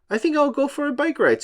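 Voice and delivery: SpongeBob voice. Acted.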